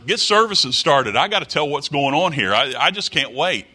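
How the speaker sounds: a hammed-up can't-wait prophet bursting to speak; impatient brethren. Preacher mimicking brethren who interrupt the service, mock impatience. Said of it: "these brethren that would say".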